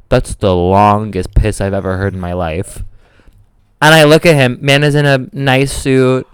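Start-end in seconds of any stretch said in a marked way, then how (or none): 0.1-2.8 low, slow impressed guy voice; stranger in awe. Retold or imitated. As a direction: draw it out low, like an amazed dude. Retells stranger's remark at the sink.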